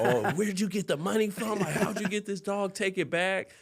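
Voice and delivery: imitating an annoyed mom, lightly hammed-up; mock angry mom. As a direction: play mom demanding the dog go back, half-joking. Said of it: "She was so pissed off".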